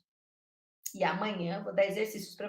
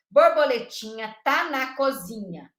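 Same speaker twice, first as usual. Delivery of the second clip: "Borboletinha tá na cozinha" with each word set apart; 5 dB louder than usual. Shown as a demonstration. Teacher showing word awareness, "Borboletinha tá na cozinha" word by word. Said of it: "O que que é consciência de palavras?".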